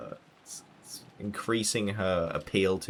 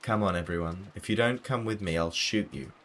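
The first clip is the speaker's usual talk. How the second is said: commanding aunt; 4 semitones higher than usual. Acted. Rosa threatening with gun.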